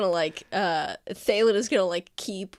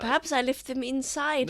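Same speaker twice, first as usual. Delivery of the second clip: hammy stage actor; 5 semitones higher than usual. Acted. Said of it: "You don't have to do all this".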